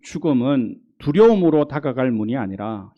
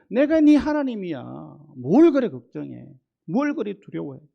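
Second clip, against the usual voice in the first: higher, coaxing voice of God; God's tender reassurance; 5 semitones higher than usual. Acted. God gently scolding a fearful believer, higher and coaxing. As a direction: gently chide a worried child.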